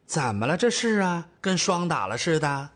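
lightly voiced fussy older mother; older mother, concerned. Mother asks her glum daughter what is wrong, mildly concerned. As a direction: ask like a plain-spoken mum.

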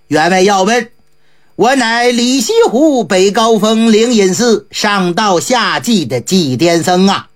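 lightly voiced eccentric monk greeting the host. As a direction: drop into the monk's relaxed voice. Ji Gong introduces himself.

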